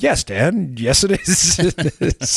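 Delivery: exaggerated, very slow, faux academic voice. Showing how you would answer dan, in an overly faux academic voice. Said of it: "In this like overly faux academic voice".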